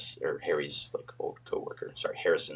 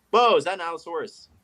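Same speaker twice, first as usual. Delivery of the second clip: higher-pitched, delighted amazement; excited surprise; 8 semitones higher, 4 dB louder than usual. Real, not acted. Guest being shown the host's favorite dinosaur, excitedly surprised. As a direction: burst out in awe.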